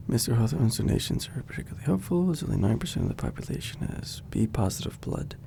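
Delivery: reading aloud. Acted. Reads the article aloud, low.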